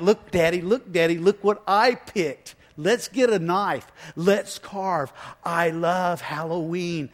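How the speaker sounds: put-on a child begging Daddy to look; excited child voice.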